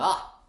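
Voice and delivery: sudden loud "ah" of acted realisation; loud mock "ah". Acts baffled tourist hearing reply.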